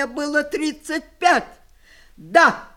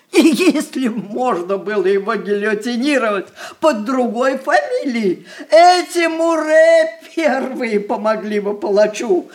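tearful bitter accusation. Acted. Grandmother accusing the family, laughing through tears. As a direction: spit it out, half laughing, half crying.

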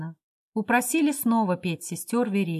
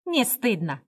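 boastful; 2 semitones higher than usual. Acted. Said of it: "хвастливо ответил Ляхов".

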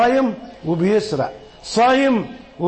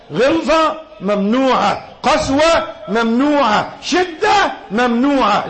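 building emphatic preaching; 4 semitones higher, slower than usual. Real, not acted. Preacher forbids harshness, building emphatically.

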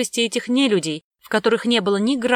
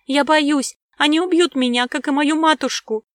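put-on high, loud, frightened child's cry; hysterical wailing; 8 semitones higher, 5 dB louder than usual. A narrator's reading. Girl clinging to her nanny, wailing in hysterical fear. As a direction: beg in a panic not to be taken. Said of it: "запричитала в истерике Мира".

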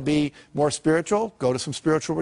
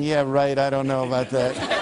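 sceptical men. Retold or imitated. Men doubting the husband's note.

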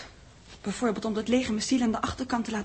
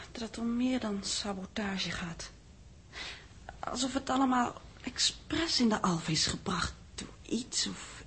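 hushed, slower unvoiced whisper; 5 dB quieter, slower than usual. Gerda whispering her suspicion to Reitsema. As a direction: breathe it out like a secret.

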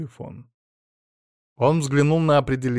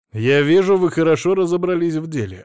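louder, biting sarcasm; angry; 6 semitones higher, 8 dB louder than usual. A narrator's reading. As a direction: throw it back angrily. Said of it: "зло сказал Алексей".

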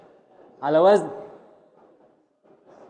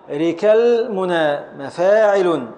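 slow scansion; slower than usual. Shown as a demonstration.

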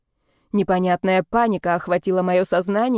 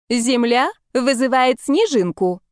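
slow, higher robotic voice; 4 semitones higher, 3 dB louder, slower than usual. Acted. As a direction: play a robot calling in. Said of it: "голосом робота проговорила подруга".

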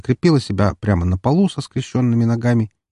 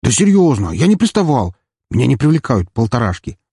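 high, louder pleading denial; loud protest; 4 semitones higher, 3 dB louder than usual. Acted. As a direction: shout your innocence. Troy defends himself from furious girl.

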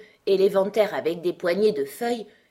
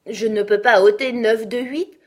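quick-to-answer Alice, louder and a little higher; lively retort; 6 semitones higher, 10 dB louder than usual. A narrator's reading. Alice answers the Red Queen's subtraction question, lively. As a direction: answer back with lively energy. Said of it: "répondit vivement Alice".

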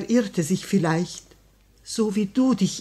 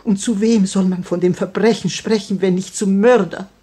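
impassioned demand; 8 dB louder than usual. Acted. Widow confronting the murderer.

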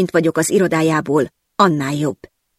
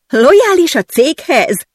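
much higher, slow incredulous echo; pained laugh; 10 semitones higher, 5 dB louder, slower than usual. Acted. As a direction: laugh it out in despair. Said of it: "nevettem fel kínomban". (kínomban felnevetve)

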